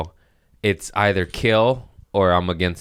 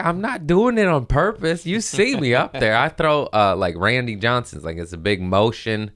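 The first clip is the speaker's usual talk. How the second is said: mock-defensive protest; 4 semitones higher than usual. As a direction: protest like a wrongly accused pitcher. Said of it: "I'm like".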